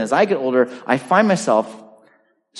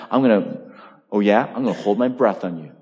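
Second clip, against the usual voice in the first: mock pouting child; 5 semitones lower, faster than usual. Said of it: "a child get so mad".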